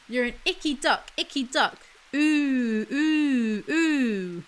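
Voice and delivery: lilting refrain with long drawn moos; sing-song taunt. A narrator's reading. Reader voices the cow taunting the duck, sing-song. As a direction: chant it, stretching every ooh.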